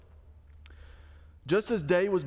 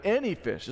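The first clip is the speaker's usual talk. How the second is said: "any fish" leaned on, higher; stress on any fish; 5 semitones higher than usual. Shown as a demonstration. Pastor showing how he stresses Jesus's words, stress on "any fish". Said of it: "I emphasize it that way".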